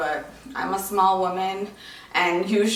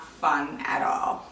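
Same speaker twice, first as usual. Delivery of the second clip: whispered; 3 semitones lower, slower than usual. Real, not acted. Complaining about night leg cramps.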